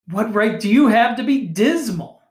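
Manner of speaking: bright, teasing comeback; gaily. A narrator's reading. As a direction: toss the question back with a grin. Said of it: "returned the nephew gaily".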